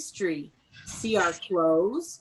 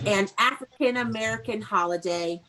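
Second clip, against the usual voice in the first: model to repeat. Shown as a demonstration. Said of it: "say with me".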